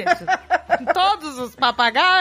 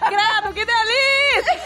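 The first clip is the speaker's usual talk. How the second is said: parrot voice; 7 semitones higher, slower than usual. Pretend. Imitating the imagined parrot.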